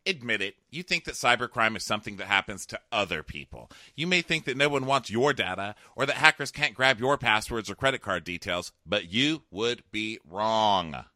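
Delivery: lightly dramatic sponsor read; podcast ad read. Real, not acted. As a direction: read the ad copy with clear emphasis, slowing on the last words.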